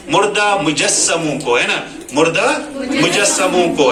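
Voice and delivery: मुजस्समो with the doubled स held firmly; stressed doubled consonant. Shown as a demonstration. Teacher demonstrates the tashdid in मुजस्समो to students. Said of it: "इसको किस तरह पढ़ना है".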